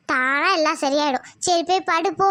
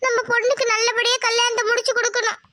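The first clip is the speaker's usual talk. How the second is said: higher, earnest wife; hopeful wife; 6 semitones higher than usual. Acted. Wife to husband about family deity, earnest. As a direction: pin your hopes on the deity.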